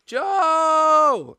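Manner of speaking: high, drawn-out holler; yelled name. Shown as a demonstration. Fan searching the city for Joe, long yell. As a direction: call out loud across a city. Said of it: "walk around the city and yell".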